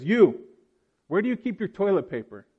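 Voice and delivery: lightly voiced demanding customer; rude customer. Customer barking at a stranger in the pharmacy, mock rude. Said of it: "The customer says".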